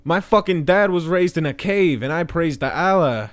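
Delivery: hammed-up zealot voice, swaggering and gleeful; brash jihadi caricature.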